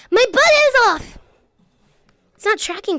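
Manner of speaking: high, loud startled shout; surprised. Real, not acted. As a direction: blurt it out in alarm. Surprised exclamation.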